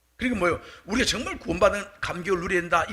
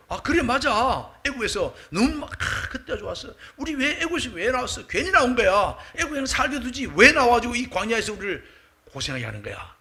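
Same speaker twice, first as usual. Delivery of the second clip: higher-pitched, regretful grumbling of a crowd; grumbling complaint; 5 semitones higher than usual. Acted. Israelites grumbling to each other about leaving Egypt, aggrieved complaint. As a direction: complain as one of the disgruntled people.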